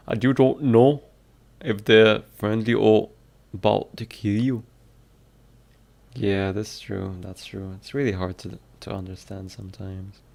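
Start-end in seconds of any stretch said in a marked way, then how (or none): 0.1-4.6 louder attempted Scottish accent; practising Scottish accent. Shown as a demonstration. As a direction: read it out boldly in a Scottish accent. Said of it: "How to do a Scottish accent".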